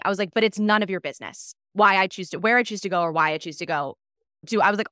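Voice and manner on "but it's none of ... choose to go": louder, mildly indignant retort; retold snapping. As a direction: re-enact telling someone off, firm and loud. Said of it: "I snapped at her".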